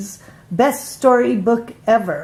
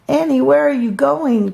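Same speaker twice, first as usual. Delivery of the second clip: calling out; 5 semitones higher than usual. Acted. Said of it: "called Melissa".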